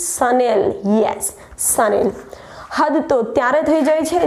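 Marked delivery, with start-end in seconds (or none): 0.1-2.1 Sunil as 'sha-nel', modelled for repeating; correct pronunciation. Shown as a demonstration. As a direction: say Sunil with a clear 'nel' ending. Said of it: "Repeat after me". (Chanelનો સાચો ઉચ્ચાર, 'શનેલ')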